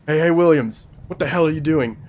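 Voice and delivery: loud, high barking at a subordinate; angry yell. Acted. Boss yelling at Williams for slacking, loud. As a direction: bark at the slacking officer.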